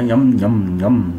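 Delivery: yum, yum, lightly voiced as if tasting food; pretending to eat, mild yum yum; yummy eating sound. Shown as a demonstration. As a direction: hum yum like eating something good. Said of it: "Parece que estamos comendo".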